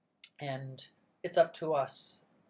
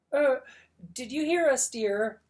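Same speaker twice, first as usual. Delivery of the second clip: high, louder, nervous asking; worried mother asking timidly; anxious; 9 semitones higher, 8 dB louder than usual. Acted. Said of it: "Missus Baker said anxiously".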